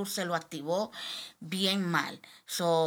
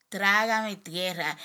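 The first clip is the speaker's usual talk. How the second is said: slow, louder cry of despair; anguished plea; 5 dB louder, much slower than usual. Retold or imitated. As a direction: drag out the plea, breaking into a cry. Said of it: "boté en, en llorar". (súplica lenta y desesperada, más fuerte)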